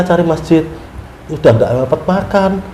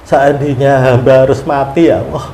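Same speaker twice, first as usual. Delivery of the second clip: softer, lower, pleading under the breath; hushed tearful prayer; 7 semitones lower, 5 dB quieter than usual. Retold or imitated. Pilgrim praying to God on the road, hushed and tearful. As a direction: pray quietly as if near tears. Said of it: "saya sempat menangis waktu itu".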